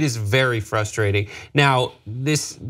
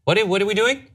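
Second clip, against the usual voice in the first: higher, confused voice-assistant questions; voicing Alexa; 7 semitones higher, faster than usual. Voice assistant interrupting its owner by mistake, puzzled imitation. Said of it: "Alexa's like".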